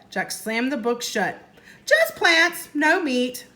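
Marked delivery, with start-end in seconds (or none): 1.8-3.5 1 relieved exclaim. Acted. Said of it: "Jack reading relieved".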